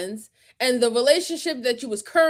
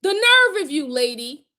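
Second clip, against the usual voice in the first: outraged. Real, not acted. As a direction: throw it at her in disgust. Turning on the stepmother.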